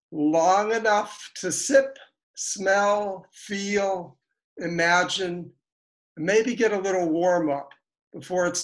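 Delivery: measured poetry reading with deliberate pauses; poem recitation. Acted. Poet opening a reading for friends, measured recitation. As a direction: recite it line by line, letting phrases hang.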